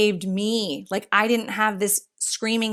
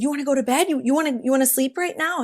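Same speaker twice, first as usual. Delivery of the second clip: put-on baby talk; 4 semitones higher, much faster than usual. Mom asks baby about bed.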